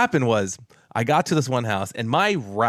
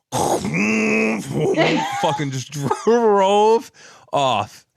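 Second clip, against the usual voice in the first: laughing; 9 semitones higher, 3 dB louder, much slower than usual. Real, not acted. Laughing while telling punchline.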